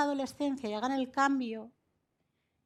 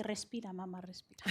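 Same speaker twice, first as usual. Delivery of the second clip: gentle soothing; 2 semitones lower, 7 dB quieter than usual. Retold or imitated. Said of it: "me pone la mano que me dice".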